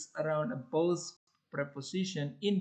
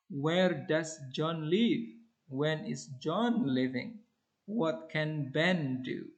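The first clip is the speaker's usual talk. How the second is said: slow, falling at the end; falling questions; slower than usual. Shown as a demonstration. Teacher reading example questions, slow falling. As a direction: let each question fall. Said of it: "spoken on a falling intonation".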